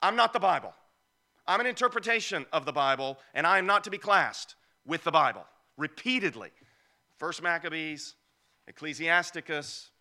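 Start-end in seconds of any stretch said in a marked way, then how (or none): 0.0-5.5 mock apocrypha author. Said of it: "my translation of how they say it".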